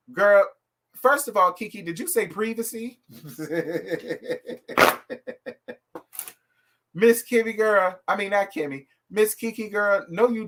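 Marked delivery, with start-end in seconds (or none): 3.2-5.7 an airy, unbelieving burst of laughter; long real laugh. Real, not acted. Host cracks up at the guest's privacy comment, a long real laugh. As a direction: laugh it out, caught off guard.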